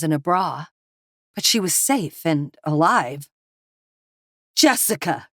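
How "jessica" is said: stunned gasp. A narrator's reading. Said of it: "he gasped".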